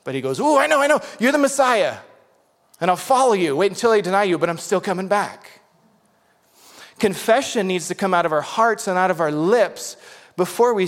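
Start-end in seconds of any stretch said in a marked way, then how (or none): 0.4-5.6 much higher and louder, gushing eagerness; eager Peter. Retold or imitated. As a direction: play Peter bursting with eager certainty. Voicing eager Peter confessing.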